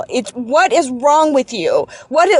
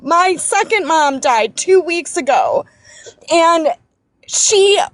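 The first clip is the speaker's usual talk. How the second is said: normal talking voice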